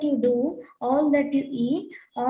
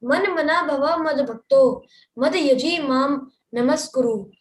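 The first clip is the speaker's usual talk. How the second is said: brisk, louder chanted verse reading; verse recitation; 4 dB louder than usual. Acted. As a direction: read the Sanskrit verse out briskly. Reads Sanskrit verse aloud.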